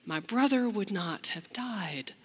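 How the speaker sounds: falling to a whisper at the end; grieving plea. Acted. Mary weeping, pleading with Jesus, fading to a whisper. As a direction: say it through grief, fading. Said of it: "the exact same thing that her sister had said".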